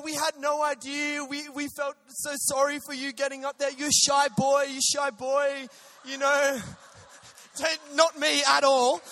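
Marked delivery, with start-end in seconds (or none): 0.0-5.7 put-on half-hearted Sri Lankan accent. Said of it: "I can't do any accent".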